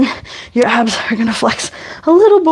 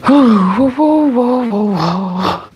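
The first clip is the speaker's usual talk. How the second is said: startled; much slower than usual. Real, not acted. Losing balance in hip rocks.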